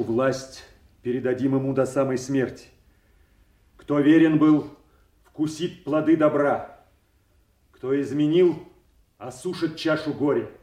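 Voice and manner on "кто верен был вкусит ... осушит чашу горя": loud, raised declaration; public proclamation. Acted. Duke promising reward and punishment, proclaiming loudly. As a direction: proclaim it firmly to all present.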